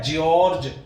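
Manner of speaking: जॉर्ज said "gee-ordge", with the extra "ee"; spelling pronunciation. Shown as a demonstration. Teacher warning students off the spelled-out जॉर्ज as "jiorj". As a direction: read जॉर्ज letter by letter as "jiorj". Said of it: "spelling के हिसाब से ऐसे नहीं बोलना है".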